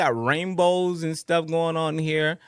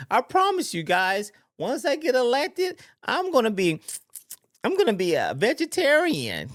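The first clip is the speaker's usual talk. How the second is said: higher, sly mock candidate promise; mock fox promise; 5 semitones higher than usual. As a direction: play the sly fox sweet-talking the sheep. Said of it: "that's what the fox is saying to the sheep".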